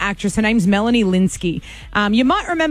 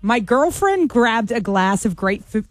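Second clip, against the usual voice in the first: American accent; slower than usual. Shown as a demonstration. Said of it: "read out in an American accent".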